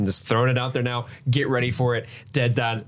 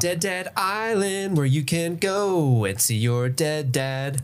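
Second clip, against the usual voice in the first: slow, high hammed-up tourism ad voice; mock ad pitch; 4 semitones higher, much slower than usual. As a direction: sell the island like a cheesy commercial.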